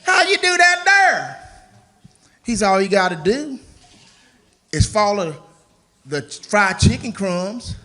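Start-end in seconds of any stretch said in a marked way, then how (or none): 0.0-1.4 high, slow white-guy caricature; exaggerated white man's voice, pitched way up. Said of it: "say it in a white man's voice". 2.7-7.8 lightly voiced white-man caricature; a hint of a white guy's voice; white man's voice. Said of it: "say it in a white man's voice".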